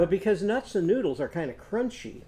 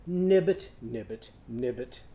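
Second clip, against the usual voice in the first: frog croak; 4 semitones lower than usual. Shown as a demonstration. Frog's croak in the verse.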